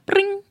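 "Bring" high, with a tongue-trilled R; rolled R demo. Shown as a demonstration. Co-host shows tongue trill, "Bring" with high rolled R. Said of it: "No, your tongue".

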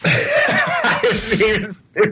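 laughing through the words; teasing, with a laugh. Real, not acted.

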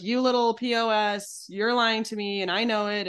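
a touch of a snarling partner; hammed-up hostile name-calling, understated; mock aggressive insult. Shown as a demonstration. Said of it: "Aggressive would be like".

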